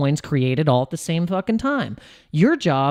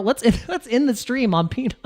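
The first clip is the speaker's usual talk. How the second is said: laughing through it; 5 semitones higher than usual. Real, not acted. Laughs mid-phrase before the retake.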